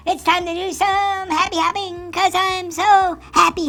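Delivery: happy frog voice. Acted. Frog puppet hopping and happy.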